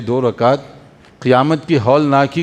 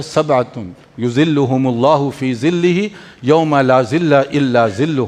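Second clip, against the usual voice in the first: slow, deliberate Arabic recital; Arabic hadith recitation; 3 semitones lower, slower than usual. Acted. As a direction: read the hadith slowly, as scripture. Arabic hadith quoted in sermon.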